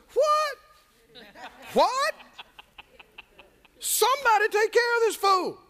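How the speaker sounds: incredulous high pitched what, rising to shout; a boy shocked nobody will fight; outraged boy. Acted. Preacher voicing young David, high astonished outcry.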